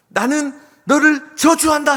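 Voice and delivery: high, slow, drawn-out yell; acted cursing shout. Mother and son curse the bully on the mountain, shouting. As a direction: bellow a curse across the valley.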